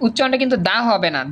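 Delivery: normal talking voice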